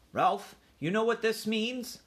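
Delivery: high, strained mother mouse; agitated mother collecting herself. A narrator's reading. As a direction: pull yourself together just enough to ask. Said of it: "managed to pull herself together".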